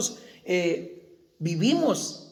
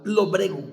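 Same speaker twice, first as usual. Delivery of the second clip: "lobrego" leaning on the first O; stress on the O. Shown as a demonstration. Preacher repeating a word for the congregation, first O stressed in "lobrego". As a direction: punch the first syllable of "lobrego", then let it fall. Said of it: "con acento en la O".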